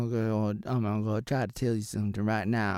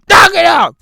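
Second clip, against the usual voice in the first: be the echo answering loud; loud mock echo; 18 dB louder than usual. Shown as a demonstration. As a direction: Knock it off shouted back higher and louder.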